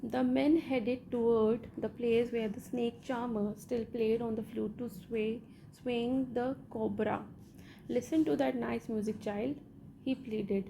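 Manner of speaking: slow, measured read-aloud of a story; deliberate textbook narration. Acted. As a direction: read each phrase out slowly for the class. Reads English story text aloud.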